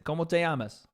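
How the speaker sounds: light mock Spanish accent; casually faked Spanish accent; put-on Spanish accent. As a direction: lean into a Spanish accent a little. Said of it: "I'm doing an accent".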